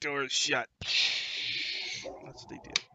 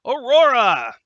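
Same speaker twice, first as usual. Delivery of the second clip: calling out; 8 semitones higher, 14 dB louder, slower than usual. Real, not acted. GM calls out player's turn.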